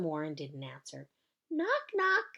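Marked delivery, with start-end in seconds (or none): 1.5-2.2 a bit louder. Acted. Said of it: "I said a little bit louder".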